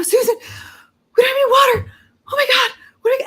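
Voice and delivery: high, loud, frantic panic; reliving a panic attack, high and frantic; panicked freak-out. Retold or imitated. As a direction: shriek it like you're losing it. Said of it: "and I freak out".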